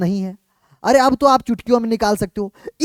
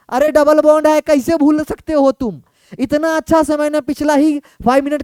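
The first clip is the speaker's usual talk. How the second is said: mock exasperation; 4 semitones higher than usual. Teacher chides forgetful students.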